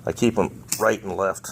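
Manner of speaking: talking with screws held in mouth. Real, not acted. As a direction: speak around screws between your lips. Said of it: "I got two screws in my mouth".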